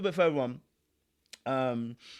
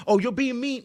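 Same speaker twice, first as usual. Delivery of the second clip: mock gaslighting whine; 7 semitones higher, 5 dB louder than usual. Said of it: "gaslight the situation like".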